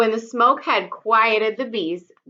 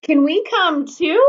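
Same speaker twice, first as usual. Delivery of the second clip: pleading; 7 semitones higher, 3 dB louder than usual. Acted. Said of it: "the two lovely ladies pleaded".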